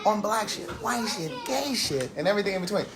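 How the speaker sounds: practiced host intro, rattling off the tagline; show sign-on. Acted. Host reopening the live show for viewers, practiced sign-on. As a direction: deliver the catchphrase to the audience. Repeats show's scripted sign-on.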